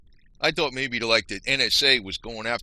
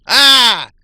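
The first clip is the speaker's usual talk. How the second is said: sudden loud "Ah!" of discovery; triumphant shout; 9 semitones higher, 17 dB louder than usual. Real, not acted. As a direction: bark it out like you caught them red-handed. Gotcha exclamation over hidden letter.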